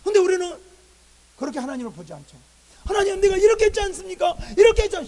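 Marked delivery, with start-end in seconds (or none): 2.8-5.1 loud, high protest to God; acted resentful complaint. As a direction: plead your record like a wronged servant. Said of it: "왜 이렇게 원망할까요". (원망하며 큰 소리로 따지듯)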